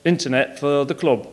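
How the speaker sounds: put-on a light Yorkshire accent for a Leeds fan; lightly put-on Yorkshire accent, only a hint. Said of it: "best Yorkshire accent".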